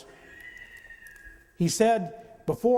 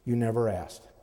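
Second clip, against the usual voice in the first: calm reply; 8 semitones lower than usual. Retold or imitated. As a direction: answer calmly, almost offhand. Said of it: "And Vine very calmly said".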